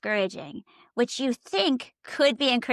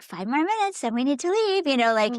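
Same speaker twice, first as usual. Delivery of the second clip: prodding reminders; 3 semitones higher than usual. Retold or imitated. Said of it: "little prodding things like".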